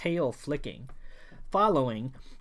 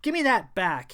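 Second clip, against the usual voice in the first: spat; 4 semitones higher, 5 dB louder than usual. Acted. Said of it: "he spat again".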